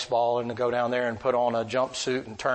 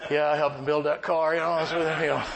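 put-on proud little kid; 3 semitones higher than usual. Voicing his proud little-kid self.

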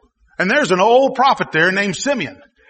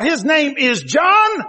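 slow, raised, ringing declaration; higher slow proclamation; proclaiming the name; 4 semitones higher, slower than usual. Retold or imitated. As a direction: lift it up and announce it slowly. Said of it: "he wrote out".

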